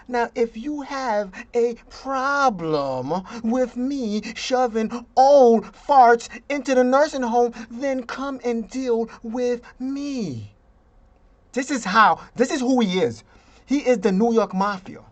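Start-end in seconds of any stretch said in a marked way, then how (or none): 0.1-10.5 slow, mildly swaggering mock Cuomo voice; lightly voiced tough guy daring you; Cuomo impression. Vlogger mocking Cuomo's nursing home order, a slow, lightly voiced tough-guy Cuomo. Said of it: "This is how he talks".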